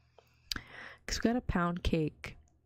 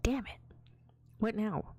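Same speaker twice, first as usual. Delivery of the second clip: whispered disappointment; 4 semitones higher than usual. Retold or imitated. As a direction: whisper the curse under your breath. Cake not replaced.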